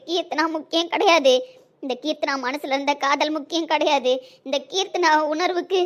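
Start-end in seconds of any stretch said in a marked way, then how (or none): none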